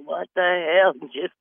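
mock yell through laughter; laughing holler. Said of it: "I'm screaming and hollering".

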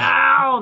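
loud imitated yelp of pain; drawn-out, re-enacted wince; cringing ow. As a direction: cry out in sympathetic pain. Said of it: "cringing 'cause we were like".

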